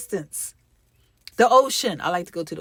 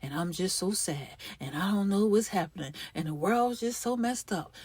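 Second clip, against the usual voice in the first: mock gloomy inner voice; 2 semitones lower, 5 dB quieter than usual. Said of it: "or sound like".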